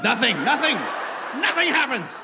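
building to a high, loud cry; exasperated shouting. Acted. Comic after landing safely in Calgary, hammed-up exasperated yelling.

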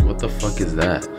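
ordinary talk, nothing marked

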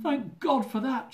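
slow, high, imitating her sobbing relief; a hint of sobbing thanks; mock sob. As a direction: play her half-crying with relief, drawn out. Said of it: "she sobbed".

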